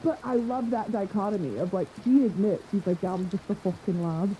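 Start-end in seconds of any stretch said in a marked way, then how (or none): 3.0-4.4 lightly imitated Northern English lad; Northern English accent. Podcaster quoting a singer from Northern England, Northern English accent. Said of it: "shithead white guy from Northern England".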